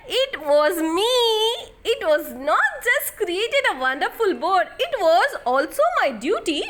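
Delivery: laughing teacher. Acted. Teacher reveals the test.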